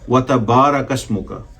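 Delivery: वतबारक with the baa stretched long. Shown as a demonstration. Teacher showing students the correct recitation, ba lengthened. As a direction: draw out the ba in वतबारक. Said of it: "थोड़ा सा लंबा करें".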